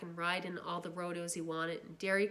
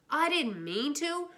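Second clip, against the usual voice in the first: slow, much higher and louder sneering echo; mocking shout; 8 semitones higher, 7 dB louder, slower than usual. Brother shouting the boy's excuse back at him. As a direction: throw his words back at him, shouting. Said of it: "Derry shouted".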